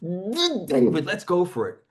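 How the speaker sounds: slow, stretched "duh, duh"; coaxing "Let's make that duh, duh, David stronger"; coaching an exaggerated stutter. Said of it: "So I say".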